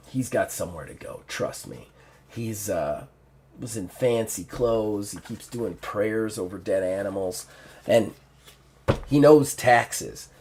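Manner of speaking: lightly voiced orc, low; gruff orc. Orc telling the woman about the stranger, lightly gruff. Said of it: "the gruff, uh, orc's voice".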